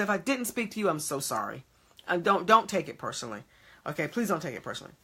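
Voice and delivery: soft, low retold apology; understated, placating tone; gentle apology. Retells own apology to church member.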